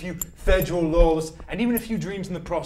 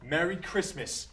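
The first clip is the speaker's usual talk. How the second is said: slow reading; 2 semitones higher, 5 dB quieter, slower than usual. Acted. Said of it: "Let's read it".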